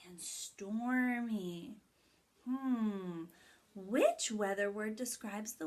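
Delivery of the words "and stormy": slow, breathy whisper of stormy; hushed stormy. Shown as a demonstration. Teacher reviewing weather words with kids, whispered for drama. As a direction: whisper it like a spooky secret.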